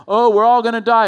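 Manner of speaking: loud, high-pitched mock wail of doom; mock panic. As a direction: cry out in exaggerated alarm. Mimics panicked person at Jericho.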